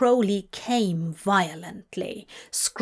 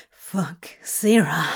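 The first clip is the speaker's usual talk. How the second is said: muttered; 4 semitones lower than usual. A narrator's reading. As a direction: mutter the name under your breath. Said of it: "he muttered".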